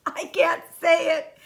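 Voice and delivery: can barely get the words out for giggling. Acted. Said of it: "giggled the rhinoceros".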